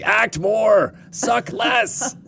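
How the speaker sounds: high, laughing mock director; blunt director voice. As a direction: bark it like a lazy director. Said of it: "So it would just be like".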